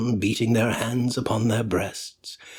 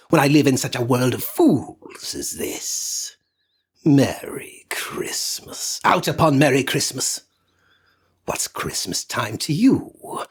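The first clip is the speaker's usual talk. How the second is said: put-on bitter old Scrooge, building louder; grumbling miser rant; 2 semitones higher, 3 dB louder than usual. Scrooge scolds his nephew, bitter rising rant. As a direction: rail against Christmas like a sour old man. Scrooge rants against Christmas.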